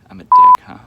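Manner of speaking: sudden high, loud mocking yell; mocking shout. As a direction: fling it at him as a jeering shout. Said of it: "So I was like".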